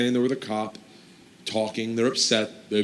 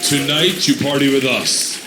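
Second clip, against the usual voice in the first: cop's invitation; 4 dB louder than usual. Retold or imitated. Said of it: "He's like".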